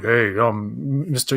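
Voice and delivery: lightly voiced butch guy; a hint of a mock-masculine voice; half-hearted macho impression; butch man. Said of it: "he does impressions of butch men".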